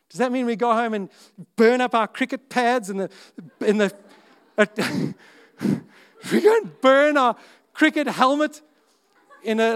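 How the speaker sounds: rising incredulous amusement; laughing disbelief. Real, not acted.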